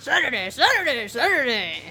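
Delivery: monster truck ad. Pretend. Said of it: "like those monster truck rally guys".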